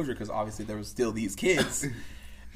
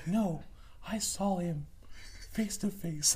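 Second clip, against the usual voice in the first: put-on high child voice, insisting; adamant little child; 8 semitones higher, 4 dB quieter, slower than usual. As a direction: imitate a child who won't be corrected. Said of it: "she was so adamant about it".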